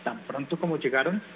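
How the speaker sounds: gentle, expressive storybook reading; reading to children. Acted. Teacher reading a picture book to families at home, storytelling voice.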